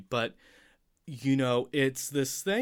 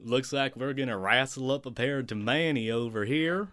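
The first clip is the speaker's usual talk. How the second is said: put-on Texas accent; 2 semitones higher than usual. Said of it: "it's supposed to have a Texas accent".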